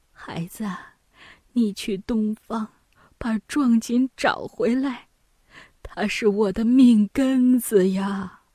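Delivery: put-on weak old mother, faint start growing into a plea; weak mother pleading. Mother begs eldest son to recover the brocade, weakly pleading.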